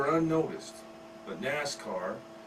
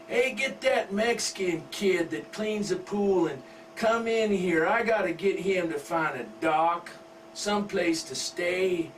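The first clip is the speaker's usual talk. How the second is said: mild yell; 4 semitones higher, 4 dB louder than usual. Acted. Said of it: "and her daddy yells".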